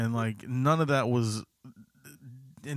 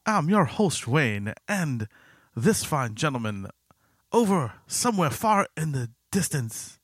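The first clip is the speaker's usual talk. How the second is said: slow, exaggerated put-on Asian accent; hammed-up fake Asian accent; bad Asian accent; 3 semitones higher, 4 dB louder, slower than usual. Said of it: "Why are you doing a really bad Asian accent?".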